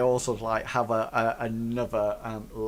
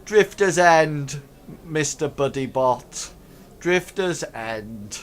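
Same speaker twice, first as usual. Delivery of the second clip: slow, lightly voiced gang boss; lead ruffian; 2 semitones higher, 5 dB louder, slower than usual. Lead ruffian telling the android where, slow and lightly voiced. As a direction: say it slowly, a hint of ruffian. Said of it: "the lead ruffian".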